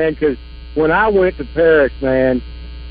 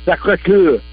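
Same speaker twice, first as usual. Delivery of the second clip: French accent; slower than usual. Shown as a demonstration. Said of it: "I gotta do a French accent".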